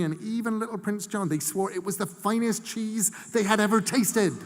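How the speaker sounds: put-on a proud old gran getting carried away with her medals; old woman bragging to the boy about her prize cheese; old Mrs Hempstock. A narrator's reading.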